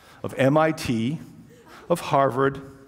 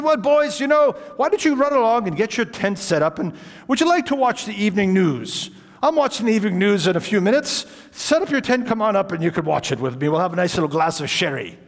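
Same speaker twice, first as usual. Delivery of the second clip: put-on old gentleman voice; 5 semitones higher than usual. Old host invites boys in.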